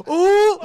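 high, loud teasing "Ooh!" from the platoon; loud mocking ooh. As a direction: hoot at him like the whole platoon. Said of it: "then they'd be like".

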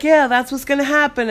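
heated retort. Retold or imitated. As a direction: fire it back, mimicking his insistence. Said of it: "get more heated".

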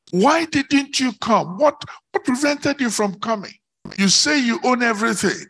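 high-pitched, pressing cross-examination; challenging interrogation. Acted. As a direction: demand answers as if confronting the accused. Preacher confronts Satan with questions.

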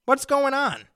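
high, loud and slow, demanding; hammed-up irritated call to the store; retold angry demand. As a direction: caller demanding his late boat. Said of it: "And I said".

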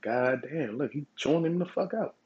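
a hint of "can you believe this" from the sidelines; amazed gawking. Two soldiers watching a fight, lightly voiced amazed gawk.

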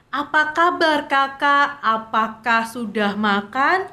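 slow, deliberately articulated message reading; reading aloud. Shown as a demonstration. Co-host demonstrates reading mom's WhatsApp for intonation practice, reading slowly aloud. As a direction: read each word out in drawn-out, measured tones. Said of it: "WhatsApp dari mama kamu yang kayak nanyain".

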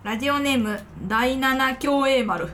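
strong Kansai intonation while reading; Kansai accent. Real, not acted. Host reading a listener's radio name, in Kansai accent. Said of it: "バリバリ関西弁で喋ってもうた".

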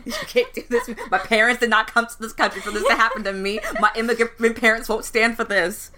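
pleading in a mock Southern accent. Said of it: "I don't know if he was Southern there for a second".

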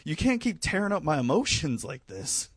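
high-pitched, exasperated plea; mock protest. Fan complaining to the author, mock protest. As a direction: plead in playful outrage.

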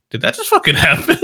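stunned disbelief. Pretend. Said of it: "they would be like".

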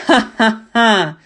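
slow, loud mocking laugh; brutish laugh. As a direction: laugh like a gloating barbarian. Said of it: "снова рассмеялся варвар".

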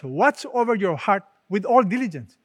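firm, emphatic scripture quote. Retold or imitated. Preacher quoting the Bible's warning to a congregation, emphatic. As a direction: press the warning home with weight. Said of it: "The Bible is very emphatic".

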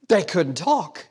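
laughing. Real, not acted. Laugh heard.

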